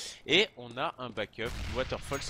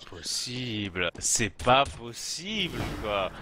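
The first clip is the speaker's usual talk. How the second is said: stunned disbelief; much slower than usual. Real, not acted. Caster reacts to a lost clutch.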